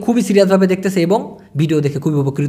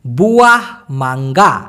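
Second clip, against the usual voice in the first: বুয়াহ মাঙ্গা slowly, word by word; slow repetition; 6 semitones lower, slower than usual. Shown as a demonstration. Teacher repeats the new vocabulary, slow and separated বুয়াহ মাঙ্গা. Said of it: "আমি আবার বলছি".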